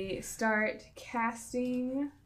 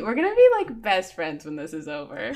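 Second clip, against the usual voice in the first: excited; 2 semitones lower, 5 dB louder than usual. Real, not acted. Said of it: "Oh my gosh, me too".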